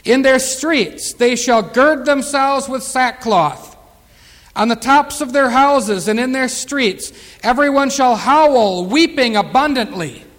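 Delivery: grave pulpit proclamation; scripture reading. Acted. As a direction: toll out the howling and weeping.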